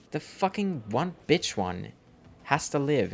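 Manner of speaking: can't believe this one lived; disbelieving outrage. Real, not acted. Retelling the dog attack to friends, outraged and shrill. Outrage that the bitch chicken survived.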